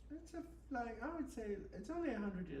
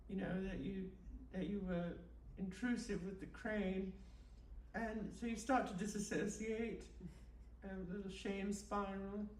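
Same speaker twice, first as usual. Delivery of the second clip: mock guided meditation. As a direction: lull them along like a spoof meditation tape. Host leads a mock guided meditation.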